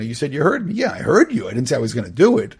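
put-on the kid's cheeky comeback. Teacher voicing a child talking back to his parent, cheeky. Parent and kid acted exchange.

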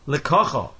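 Lekacha stressed on "ka", not the ending; accent toward the beginning. Shown as a demonstration. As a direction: say Lekacha as le-KA-cha, last syllable unstressed. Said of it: "the accent is on the beginning of the word".

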